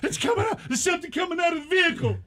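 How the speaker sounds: put-on old-timey radio announcer. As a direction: announce it like a breathless War of the Worlds broadcast. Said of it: "talking in those old-timey voices".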